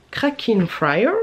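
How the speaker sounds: slow, careful mock English pronunciation of Cracking Fire; a clumsy try at saying Cracking Fire the English way; a poor attempt at an English accent, drawn out slowly; bad English accent. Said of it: "Mon accent était pourri".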